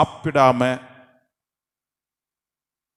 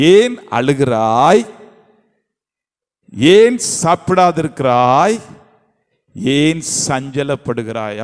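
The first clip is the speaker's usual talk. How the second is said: concerned husband; 3 dB louder, slower than usual. Shown as a demonstration. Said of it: "எப்படி?".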